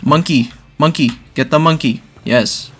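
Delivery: loud, urgent frantic calls. Real, not acted. Frantic game moment.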